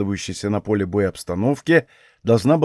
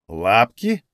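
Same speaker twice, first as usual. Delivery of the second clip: surprised. Acted. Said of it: "переспросил Гряк удивлённо".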